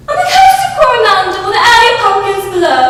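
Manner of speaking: high, fast, loud sing-song English reading; lilting English storybook chant; English nurse reading verse. Acted. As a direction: croon the rhyme like an English nanny. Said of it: "a woman with a pronounced English accent said".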